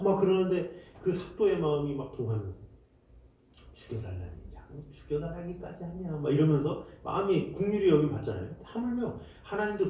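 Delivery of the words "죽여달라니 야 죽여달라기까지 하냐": moved magistrate. Retold or imitated. Preacher voicing the magistrate, much softer. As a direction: speak as a touched official.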